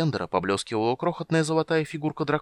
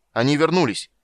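loud, higher-pitched exclamation; raised voice, driving the point home; shouting; 6 semitones higher, 7 dB louder than usual. A narrator's reading. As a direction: cry it out emphatically. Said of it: "прокричал Танис".

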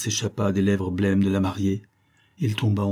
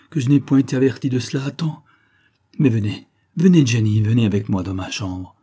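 frantic plea; 2 semitones higher, 5 dB louder than usual. Acted. Agnès frantic, pleading.

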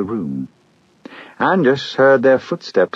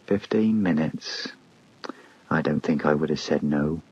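regretful; 3 semitones lower, 7 dB quieter than usual. Acted. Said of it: "said regretfully".

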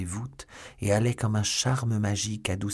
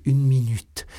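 high, loud begging; desperate plea; 6 semitones higher, 8 dB louder, slower than usual. A narrator's reading. Milady begging Felton for the knife, high and loud. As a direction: beg for one minute at full voice.

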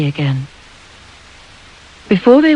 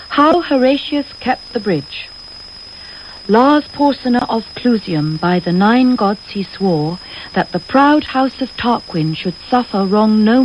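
poem recited in a rush, pitch raised at the start; rushed recitation; 3 semitones higher than usual. Acted. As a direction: blurt out the memorised verse like a nervous pupil. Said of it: "She began in a rush".

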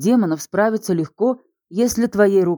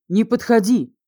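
higher panicked repeat; 4 semitones higher than usual. Acted. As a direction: pitch rising in panic. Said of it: "даже не пытаясь скрыть ужас".

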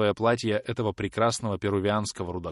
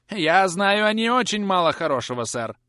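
высокий, громкий каркающий голос; прокаркай это как злая старуха; каркающая старуха; 11 semitones higher, 6 dB louder than usual. A narrator's reading. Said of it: "каркала миссис Пипчин". (злая старуха каркает в ответ хозяину)

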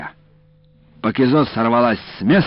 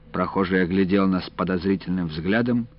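ordinary delivery

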